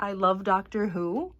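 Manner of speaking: loud, giggly burst of enthusiasm; excited fan. Real, not acted. Woman showing viewers her favorite show, excited. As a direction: gush loudly about a show you adore.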